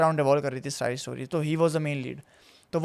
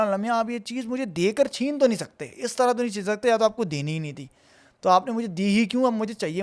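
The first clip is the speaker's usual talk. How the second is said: insistent plea; 5 semitones higher than usual. Retold or imitated. Re-enacts his plea to God.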